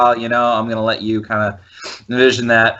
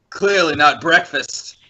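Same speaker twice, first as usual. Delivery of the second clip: slow, higher-pitched emphatic answer; still talking loud; 4 semitones higher, slower than usual. Acted. Captive answers goblin without hushing, still talking loud. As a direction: answer slowly, not bothering to hush. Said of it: "are you still talking loud".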